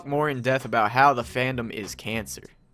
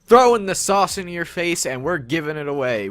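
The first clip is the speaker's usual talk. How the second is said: louder, higher hype-man announcement; hyped announcement; 5 semitones higher, 6 dB louder than usual. Pretend. Announcing the one-day sauce giveaway as a loud hyped promo.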